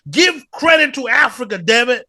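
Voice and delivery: laughing. Real, not acted. Laughing, insisting on Africa.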